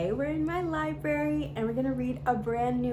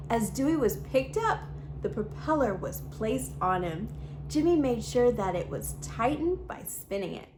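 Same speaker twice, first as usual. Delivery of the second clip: put-on lively read-aloud storytelling for kids; storybook reading. A narrator's reading. YouTube host reading a picture book to children, bright storytelling. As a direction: read the story to little viewers, expressive and clear.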